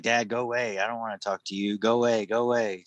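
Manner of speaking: imitating sulky daughter. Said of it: "she's gonna be like".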